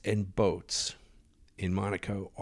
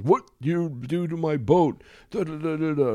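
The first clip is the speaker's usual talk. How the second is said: mock Russian accent, higher and louder; 7 semitones higher, 3 dB louder than usual. Angry Russian boat owner ranting at Joshua in a mock Russian accent. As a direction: ham up a volatile Russian yacht owner's accent. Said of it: "and he says".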